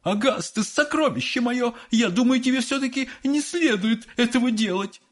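high fussing mother voice; doting mother. Acted. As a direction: coo and scold like a doting mother. Mother fusses over son.

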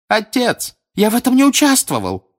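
high, loud, fast panicked shout; chained son shouting at his father. A narrator's reading. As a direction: scream your innocence. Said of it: "ещё громче крикнул".

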